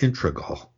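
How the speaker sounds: "integral" said as IN-truh-gul; R moved back. Shown as a demonstration. Showing a common error, "integral" as IN-truh-gul. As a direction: slip the R of "integral" into the second syllable. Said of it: "the R gets pushed back into the previous syllable".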